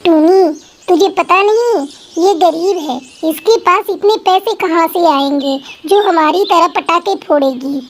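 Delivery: mocking rich girl. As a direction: look down on the poor neighbour. Rich girl mocks poor girl. (अमीर लड़की की ताने भरी ऊँची आवाज़)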